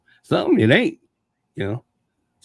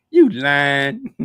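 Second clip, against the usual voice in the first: "You lying" thrown out louder, "you" punched with a rising tune; a louder accusing "You lying"; 2 semitones higher, 6 dB louder than usual. Shown as a demonstration. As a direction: call him out, half amused. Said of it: "why did I say it like that".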